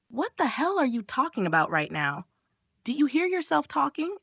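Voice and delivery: high-pitched, indignant disbelief; incredulous protest. A narrator's reading. Brother to the prying friend, incredulous protest. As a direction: question it as if appalled. Brother shocked by her claim.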